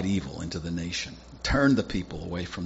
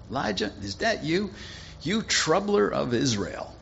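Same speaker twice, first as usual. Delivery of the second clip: accusing king; 8 semitones higher than usual. Acted. Ahab confronts Elijah.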